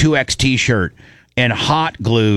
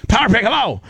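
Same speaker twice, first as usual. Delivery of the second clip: wrong safe word; 9 semitones higher, faster than usual. Shown as a demonstration. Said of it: "you'd miss the hello".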